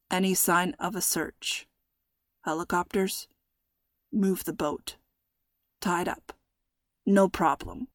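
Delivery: soft, distant muffled voice; muffled through a wall. A narrator's reading. Captor on the phone heard through the wall, muffled.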